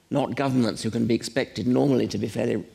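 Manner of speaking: light emphasis on the word "normally"; stress on normally. Real, not acted. Speaker qualifying which governments are responsible, "normally" lightly stressed. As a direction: lean slightly on "normally" as a pointed qualifier. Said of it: "I stress the word normally".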